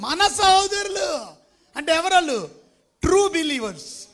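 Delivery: proclaiming to the church who the true believers are; preaching at full force. Acted. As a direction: ring it out over the congregation. Preaching climax.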